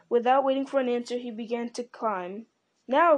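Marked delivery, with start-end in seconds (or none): 2.9-3.2 loud, high cry of alarm; sudden cry. A narrator's reading. Gimli to Legolas as the old man climbs, sudden cry. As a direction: cry it out sharply, louder and higher. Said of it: "cried Gimli".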